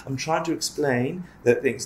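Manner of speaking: patiently patronizing, a bit soft; condescending explaining. Retold or imitated. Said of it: "don't be condescending".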